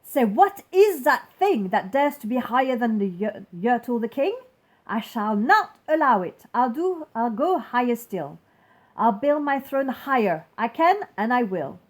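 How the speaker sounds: loud indignant ranting; king refusing to be outdone; defiant king. Acted. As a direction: vow it with stubborn pride. King raging at the moon.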